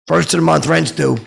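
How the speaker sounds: high, loud barked landlord line; mock stern landlord; gruff landlord line. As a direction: bark it like a landlord demanding rent. Dinklage voiced stern landlord line.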